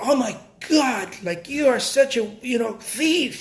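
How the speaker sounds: indignant, high-pitched, drawn-out outraged outburst. Retelling a woman's reaction over his unsold painting, imitating her outrage. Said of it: "she goes bananas on me".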